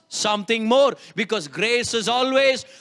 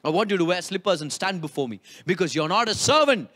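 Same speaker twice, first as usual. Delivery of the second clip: low, gentle reassurance to a son; tender father; 6 semitones lower than usual. Retold or imitated. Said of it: "the dad is like".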